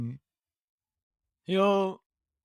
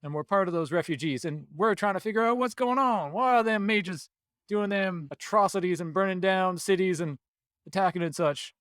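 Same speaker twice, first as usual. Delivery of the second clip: Southern druid voice; 3 semitones higher than usual. Acted. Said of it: "So he switches back to normal".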